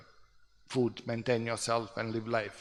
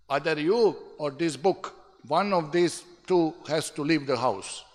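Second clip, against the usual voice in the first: mildly raised, acted ultimatum; upset father; 3 semitones higher, 4 dB louder than usual. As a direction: imitate a father laying down an ultimatum. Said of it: "He was very upset".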